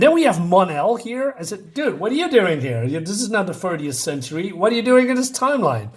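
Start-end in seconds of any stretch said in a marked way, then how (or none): 1.7-5.9 higher-pitched, playful disbelief; mock bewildered challenge. Reviewer challenges Mon-El about the timeline, mock bewilderment. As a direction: question him in mock exasperation.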